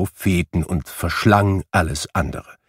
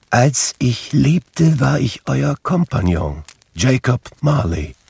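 ghost voice; 5 semitones higher than usual. A narrator's reading. Ghost introduces itself.

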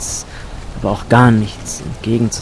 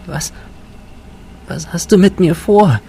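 frightened high whisper; 8 semitones higher than usual. Acted. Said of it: "flüsterte sie".

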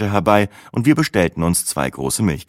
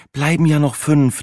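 consoling; 8 semitones higher than usual. A narrator's reading. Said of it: "tröstete mich Sina".

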